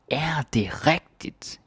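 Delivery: "Er det rigtigt?" pitched high and slow with a big rising tune; disbelieving. Shown as a demonstration. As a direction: sound like you can't believe it. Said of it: "when we are sort of not believing".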